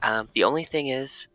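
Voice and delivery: Ursa voice. Acted.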